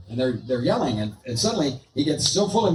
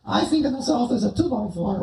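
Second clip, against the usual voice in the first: squeaky high puppet voice, shouted out; a cheeky dummy yelling hello from the box; ventriloquist dummy Bob; 5 semitones higher than usual. Acted. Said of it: "we're gonna do some ventriloquism here".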